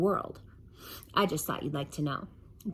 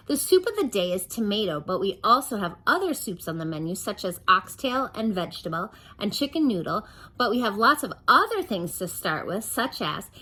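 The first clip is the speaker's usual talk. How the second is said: chatty waitress; 3 semitones higher, 4 dB louder than usual. Acted.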